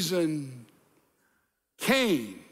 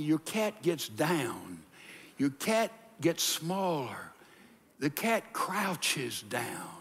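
hushed stalking cat; 4 semitones lower, 5 dB quieter, slower than usual. Shown as a demonstration. Acting out a crouching cat.

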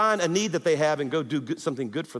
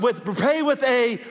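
louder prompt; 5 semitones higher, 4 dB louder than usual. Shown as a demonstration. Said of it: "say it out loud".

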